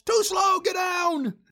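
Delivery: loud, high mock commander's shout; retold yell. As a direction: shout it like an impatient drill commander, imitated. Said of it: "he yells".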